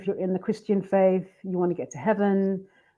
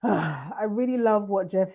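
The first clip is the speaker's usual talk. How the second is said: words breaking into real laughter; a real laughing fit bursting through a sentence; 3 dB quieter, slower than usual. Real, not acted. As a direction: try to speak but the giggles win. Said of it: "I'm trying to hold it together".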